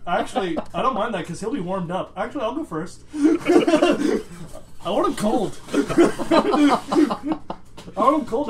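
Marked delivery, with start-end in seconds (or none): 3.1-3.1 laughing. Real, not acted. Laughing while speaking. 3.1-8.5 laughing. Real, not acted. Laughing, repeated.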